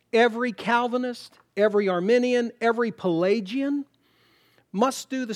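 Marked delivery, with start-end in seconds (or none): none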